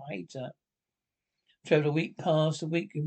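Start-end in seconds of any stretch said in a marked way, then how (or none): 0.1-0.5 near-silent "I hate her", much softer; hissed hatred. Acted. Sandra alone, hating her stepmother, barely audible. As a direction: let the hate sink to a breath.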